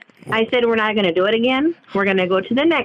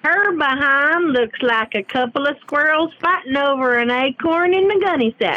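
Southern drawl; 3 semitones higher than usual. Acted. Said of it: "That's how you need to talk".

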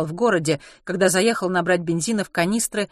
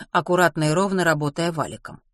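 ordinary delivery, nothing marked

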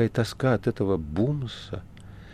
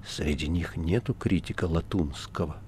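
глухой голос; 4 dB quieter than usual. Acted. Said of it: "голос её стал глух".

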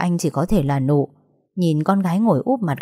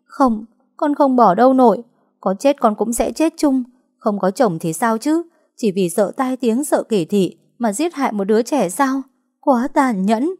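defiant protest; 6 semitones higher than usual. A narrator's reading. Nụ defies her grandmother.

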